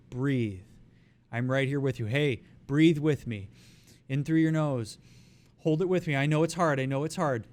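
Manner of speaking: calm, gentle breathing guidance. Shown as a demonstration. Coach guiding a panicking person's breathing, gentle. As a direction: coax them into breathing with you. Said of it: "very small, bite-sized demands".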